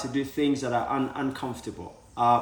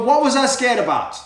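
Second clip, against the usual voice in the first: mock relief; 8 semitones higher, 6 dB louder than usual. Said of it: "you go".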